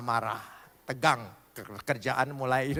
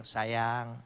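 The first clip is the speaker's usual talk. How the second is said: tender; 8 semitones lower, 6 dB quieter than usual. Shown as a demonstration. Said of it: "kita harus berani bilang".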